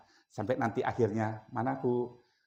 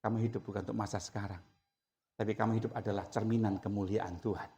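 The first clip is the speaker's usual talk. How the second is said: gentle voice of God; 3 semitones lower, 5 dB quieter than usual. Acted. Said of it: "Tuhan bilang".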